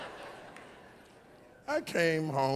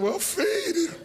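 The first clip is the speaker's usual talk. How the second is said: higher, offhand retort; mock exasperated husband; 14 semitones higher, 3 dB louder, slower than usual. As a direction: toss it back like it's obvious. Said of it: "I said".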